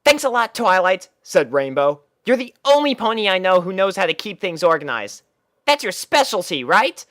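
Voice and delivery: high, brash tomboy pony voice, pitched well up; a cocky young pony defending herself; Rainbow Dash voice. Acted. Rainbow Dash explains the puppies to Twilight, high and brash.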